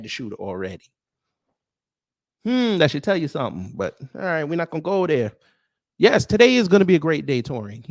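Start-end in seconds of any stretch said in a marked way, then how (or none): 6.0-7.9 "today" punched, louder and bright; upbeat declaration. Real, not acted. Streamer cheering the viewer Torian, louder upbeat call. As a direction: announce it like good news. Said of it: "upbeat declaration to the viewer".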